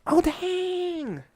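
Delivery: very high, loud squirrel yell; Tippy Toe. Acted. Squirrel seeing what's happening, high shrieked exclamation. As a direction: blurt it out at full pitch, stunned. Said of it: "Tippy Toe goes again".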